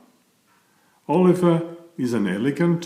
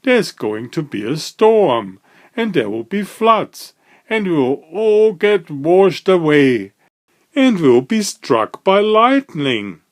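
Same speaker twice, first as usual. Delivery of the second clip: panicky; 5 semitones higher, 5 dB louder than usual. A narrator's reading. Mister Jelly panics about storm.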